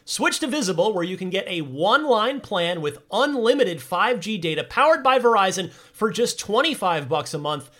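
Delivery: upbeat announcer ad read; bright, breezy ad voice. Acted. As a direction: sell it like a radio spot.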